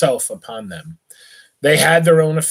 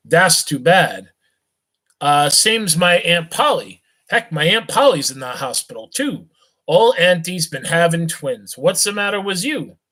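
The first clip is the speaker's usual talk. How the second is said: put-on jolly drunk rich boy, loose and cheerful; tipsy young gent; 3 semitones higher than usual. Rich drunk youth chats with a beggar, tipsy and friendly.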